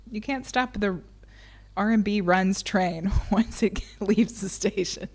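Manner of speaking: laughing mid-sentence; talking through real giggles; giggling. Real, not acted. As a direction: let the giggles break through. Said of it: "I just got the giggles".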